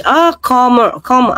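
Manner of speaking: "calmer" with a long open British vowel, falling; mock British accent. Showing viewers how the British say it, mock British accent. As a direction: imitate a British speaker saying "calmer". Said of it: "Ganyan po ang British".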